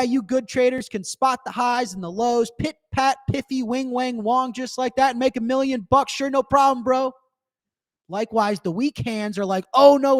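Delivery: animated reading of a forum post; reading the post aloud. Shown as a demonstration. Host reading the hodl post to chat, lively. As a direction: read it out like a drunk legend's rant. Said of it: "I have to read you guys verbatim".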